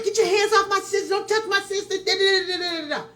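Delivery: high, hurried mimicry of someone screaming; mock screaming. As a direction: rattle off a mock rant, trailing into babble. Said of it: "screaming and yelling".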